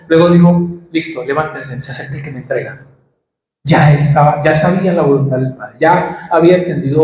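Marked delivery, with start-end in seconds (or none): 0.9-2.9 soft quoted Jesus. Retold or imitated. Jesus quoted telling disciples.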